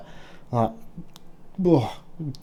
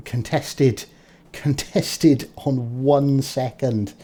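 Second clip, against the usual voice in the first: slow, drawn-out relieved call; excited relief; 3 semitones higher, 4 dB louder, slower than usual. Real, not acted. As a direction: stretch it out in disbelief. Cap contested at last second.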